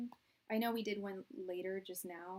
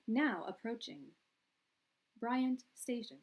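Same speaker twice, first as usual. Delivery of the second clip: measured station announcement, pitched up slightly; train announcer; 2 semitones higher, 4 dB louder than usual. Acted. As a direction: announce the stop, pausing before the name. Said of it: "like the trains".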